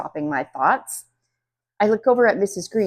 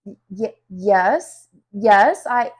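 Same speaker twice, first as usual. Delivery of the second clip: shaky voice; 2 semitones higher, 8 dB louder, slower than usual. A narrator's reading. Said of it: "my voice shakes so bad".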